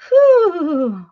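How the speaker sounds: high, loud "whew"; whoop. Real, not acted. Streamer cutting loose between greetings, high loud whoop. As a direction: let out a big falling whoo.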